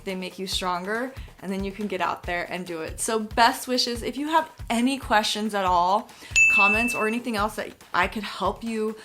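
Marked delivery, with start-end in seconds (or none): 3.0-9.0 slight lisp from new veneers; s sounds whistle through teeth; whistling s. Real, not acted. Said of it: "Excuse the lisp".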